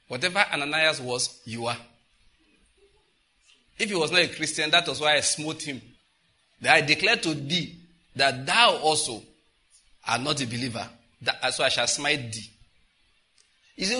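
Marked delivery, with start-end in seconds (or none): 3.8-12.5 mock biblical prophet. Jesus voiced in archaic speech.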